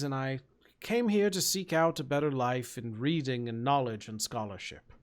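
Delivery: lightly voiced scholarly ogre; genteel ogre storyteller, settling down at the end; refined ogre, earnest. Ogre explaining his new life, earnest and refined.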